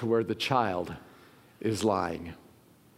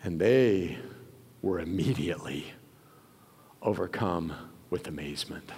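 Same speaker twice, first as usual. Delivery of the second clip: soft breathy whisper of amazement; awed whisper; 8 semitones lower, 5 dB quieter than usual. Acted. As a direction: let it fall to a whisper. Whispered climax.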